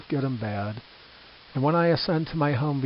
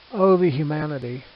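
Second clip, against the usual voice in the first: louder, wrenching cry of grief; anguished cry; 2 semitones higher, 6 dB louder than usual. Retold or imitated. Reporter watching the crash, anguished, louder cry. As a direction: let it tear out of you. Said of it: "He described those moments in these words".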